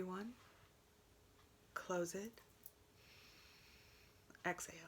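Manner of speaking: soft breathing-exercise voice, long pauses; guided breathing. Shown as a demonstration. Meditation teacher guiding viewers through nostril breathing, soft guided voice. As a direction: talk them gently through each breath, leaving space.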